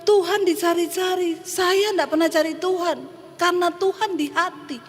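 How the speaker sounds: a mocking drunk's smug boast, lightly voiced. Drunk man mocking the pastor about God, lightly smug. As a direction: toss it off like a cocky drunk teasing the pastor. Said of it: "Dia mengejek saya".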